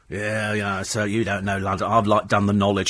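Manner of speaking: mild imitation of a surly driver; mock cabbie abuse. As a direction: sneer at the passenger like a cabbie. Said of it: "a mouthful of abuse".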